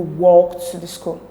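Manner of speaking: "walked" stressed to clarify; emphatic stress on WALKED. Shown as a demonstration. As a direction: correct them by leaning on "walked". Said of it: "clarifying by emphasizing walked".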